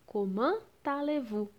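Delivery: "comment allez-vous" with a T linking the first two words; T liaison. Shown as a demonstration. Teacher showing how to ask how you are, T liaison in "comment allez-vous". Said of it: "vai ficar com som de T".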